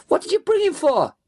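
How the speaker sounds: high-pitched, outraged yell. A narrator's reading. Driver yelling over his shoulder at his accomplice, yelling. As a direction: yell in alarm at someone behind you. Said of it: "I yelled over my shoulder at Mickey".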